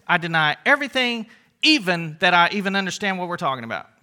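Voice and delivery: politician's denial. Acted. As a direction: pile up evasive denials, quickening at the end. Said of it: "a good politician denial".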